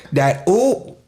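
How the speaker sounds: "ooh" held out as its own rising sound; emphasized OOH sound. Shown as a demonstration. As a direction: put extra emphasis on the vowel in "ooh". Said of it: "we put so much emphasis".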